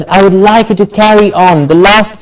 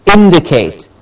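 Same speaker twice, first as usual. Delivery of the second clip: "indicate" with weight on IN; falling IN-di-cate; stress on IN. Shown as a demonstration. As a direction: say "indicate" hitting the first syllable. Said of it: "The in gets the stress".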